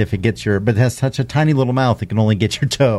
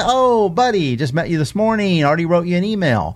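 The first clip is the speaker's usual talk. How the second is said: eager greeting; 6 semitones higher than usual. Retold or imitated. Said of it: "give you a".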